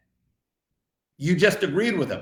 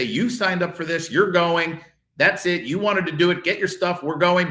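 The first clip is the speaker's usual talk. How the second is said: mock panicked parent; 3 semitones higher than usual. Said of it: "don't panic and say".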